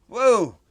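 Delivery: exhale woo. Real, not acted. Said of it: "sorry, I get carried away".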